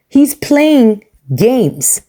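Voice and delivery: slow, drawn-out whisper; hushed aside to the viewers. Real, not acted. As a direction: lean in and whisper it like a secret. Calls out the husband.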